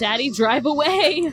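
high, screaming, pleading cry. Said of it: "She's screaming".

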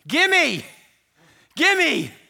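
put-on very loud, shrill, very high little-child voice. Showing what sophisticated depravity sounds like: demanding like a little child. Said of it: "Here's what it sounds like. ... Like a little child".

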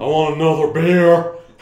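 very loud, booming, belted out. Listing food pairings with a friend: Stone Cold Steve Austin voice. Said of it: "Stone Cold Steve Austin and beers".

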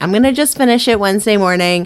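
ordinary delivery

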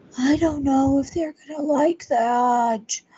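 high, soft, breathy voice, drawn out. Comparing one's own transatlantic accent to a comic's hot pocket bit, Jim Gaffigan's really high breathy voice. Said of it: "he has that really high breathy voice".

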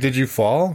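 exaggerated, heavily rising upward ending. Retelling what the daughter asked: imitating a heavily rising question. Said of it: "heavy emphasis on the question mark at the end".

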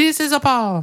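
very high, put-on Italian man's accent. Introducing himself to the group, doing an Italian guy voice. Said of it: "I'm gonna do Italian guy".

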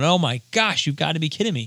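mock screaming, acted out. Recounting watching a show, the speaker acts out screaming at the tv. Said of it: "I'm like screaming at the TV going".

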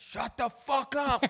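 mock all-out shout, very high, loud, very slow. Recalling opening their window at night and yelling, retelling a yell. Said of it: "I opened my window and I yelled".

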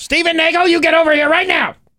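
very high, shrill, scolding mother voice, calling out. Telling someone on the show they sound like his mother: imitating mother calling him in trouble. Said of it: "like my mother would call me when I'm in trouble".

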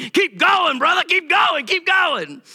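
very high, loud whooping shouts of encouragement. Retelling how the men stand up during a sermon: imitating men hooping and hollering. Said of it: "they start hooping and hollering".

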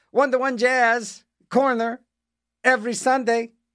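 strange lilt. Announcing a Sunday time slot in a Christopher Walken inflection. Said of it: "That was my Christopher Walken inflection".

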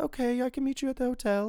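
put-on man faking a very high girly voice. Describing the ex-girlfriend's voice turning out to be a man's: man faking a woman's voice. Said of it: "It's like a guy kind of talking like that".

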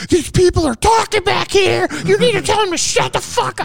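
very high shrieking, screaming yell, acted. Retelling a guy at work yelling at them: imitating someone screaming. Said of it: "screamed at me".

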